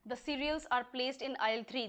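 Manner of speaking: very slow, word by word; teacher dictating the example; slow dictation. Shown as a demonstration. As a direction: spell it out slowly for the class. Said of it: "slow dictation of example sentence".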